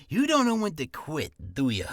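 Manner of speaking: disappointed line with a tag at the end; disappointed character. Shown as a demonstration. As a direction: punch the line, then toss off a tail. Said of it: "post-life is anything you do ... at the end".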